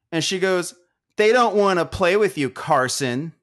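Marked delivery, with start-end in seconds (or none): 1.2-3.3 higher, pointed mock-mom voice; snooty mom. Mom telling off Carson at the bar, snooty imitation. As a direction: imitate a disapproving mother. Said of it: "shoots me a shitty look".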